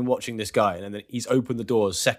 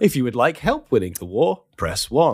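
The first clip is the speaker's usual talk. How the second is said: robocall. Pretend. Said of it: "Jeff just pops into existence and says, "This is a recorded message".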